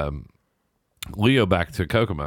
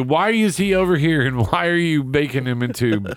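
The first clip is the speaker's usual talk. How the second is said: imitated yelling; 5 semitones higher than usual. Police questioning him about his companion, imitated yelling. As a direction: imitate cops yelling accusations. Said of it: "They start yelling at you".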